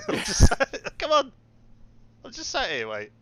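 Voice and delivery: loud, high, indignant protest; exasperated retort. Retold or imitated. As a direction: shout back in mock outrage. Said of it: "Come on what?".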